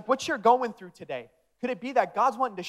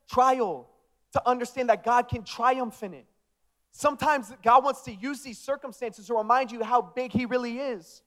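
raised, insistent preaching refrain; 4 semitones higher than usual. Real, not acted. Preacher encouraging people in trials, emphatic preaching. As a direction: drive each line home to the congregation.

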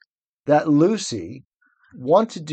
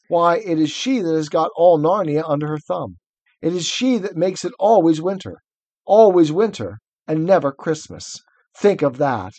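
lightly voiced faun, raised and earnest; grim faun; 3 semitones higher, 3 dB louder than usual. Faun telling Lucy about the White Witch, earnest. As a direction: warn her of the endless winter. Plays Tumnus reading aloud.

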